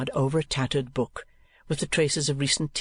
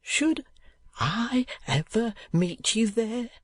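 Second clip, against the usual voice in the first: put-on wild eager boy; 9 semitones higher, slower than usual. A narrator's reading. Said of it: "with unusual wildness and volubility".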